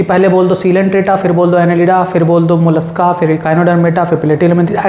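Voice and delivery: wrong order demo. Shown as a demonstration. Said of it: "ऐसे नहीं पढ़ना है".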